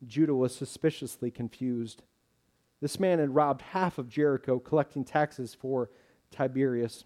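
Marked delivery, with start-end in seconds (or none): none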